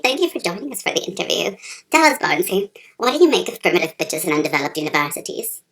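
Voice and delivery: deep interviewer voice. Acted. Low interviewer voice.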